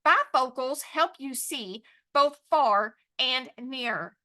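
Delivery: slow, measured phrases with gaps; sentence dictation. Shown as a demonstration. Teacher repeating the sentence for writing, slow dictation. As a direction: dictate slowly so they can write. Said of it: "write that sentence".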